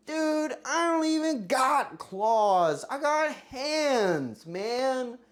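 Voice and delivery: high, loud, slow complaint; yelling. Real, not acted. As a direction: drag out the outraged complaint. Yelling protest at chat vote.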